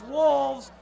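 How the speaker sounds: loud rally shout; yelled cheer. Shown as a demonstration. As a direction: yell the team name. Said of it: "Everybody screams".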